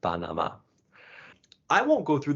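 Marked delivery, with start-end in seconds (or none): 0.0-0.5 Panama with the same open "ah" three times; one repeated vowel. Shown as a demonstration. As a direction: keep every A in Panama an "ah". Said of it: "just one sound repeated".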